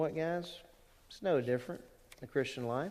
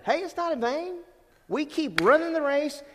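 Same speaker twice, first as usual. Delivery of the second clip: fervent exhortation; 12 semitones higher, 4 dB louder than usual. Real, not acted. Preacher exhorting the church.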